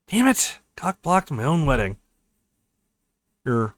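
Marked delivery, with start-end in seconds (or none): 0.1-2.0 frustrated curse. Acted. Toast blocks their exit.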